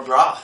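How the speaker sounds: "brah" with an open "ah" vowel; West Coast "brah". Shown as a demonstration. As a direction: say "brah" ending in ah. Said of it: "people say bro".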